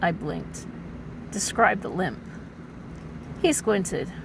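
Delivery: overwrought noir narration; milk every line like pulp noir; hammy stage actor. A narrator's reading. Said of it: "as a dramatic reading".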